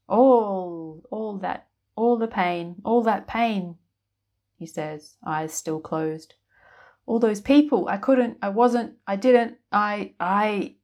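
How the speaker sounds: words tripping over grief; anguished wizard. A narrator's reading.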